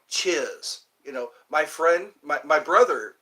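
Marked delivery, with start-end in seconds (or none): 0.1-0.8 lightly imitated British thanks; a quick British-accented acknowledgement. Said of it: "They say, like".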